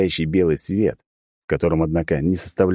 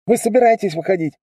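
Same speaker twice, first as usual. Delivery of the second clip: much higher, louder impatient question; impatient drone voice; 14 semitones higher, 4 dB louder than usual. Acted. The drone rushing the girls, impatient call. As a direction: hurry them through the speaker.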